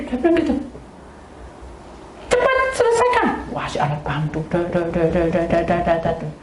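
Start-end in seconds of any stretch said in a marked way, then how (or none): 2.3-3.3 urgent plea. Retold or imitated. Urging the staff to hurry.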